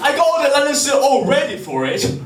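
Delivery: high-pitched, giggling through the mock complaint; laughing queen rant. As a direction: rant as the queen but keep cracking up. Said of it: "yelling at her god".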